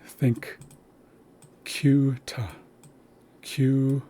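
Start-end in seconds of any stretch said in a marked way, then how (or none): 1.6-4.0 kyuta, the y glided in right after the k; kyuta with a y glide. Shown as a demonstration. Teacher modelling kyuta for learners. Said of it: "When you see kyuta, think".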